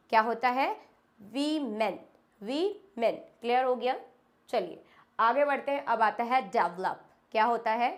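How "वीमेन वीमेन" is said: वीमेन said as "wi-men" twice; correct pronunciation. Shown as a demonstration. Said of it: "Women, not womens".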